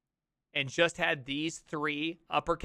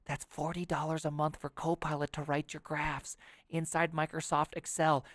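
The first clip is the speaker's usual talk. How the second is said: salesman; 2 semitones lower, 6 dB quieter than usual. Pretend. Mocking Microsoft salesman pitch.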